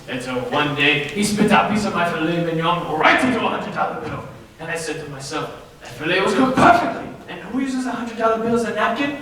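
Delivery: a lightly put-on French accent building to a rousing cry; rally your partner like a fake French revolutionary; hammy French speech. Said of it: "German accent".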